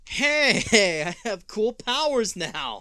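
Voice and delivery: high, loud goofy mutant. Retold or imitated. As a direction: play it dopey and eager.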